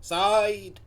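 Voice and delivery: careful imitation Mancunian; Manchester accent attempt. Viewer copying the comedian, in an attempted Manchester accent. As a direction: have a go at Manchester vowels. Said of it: "let's try this".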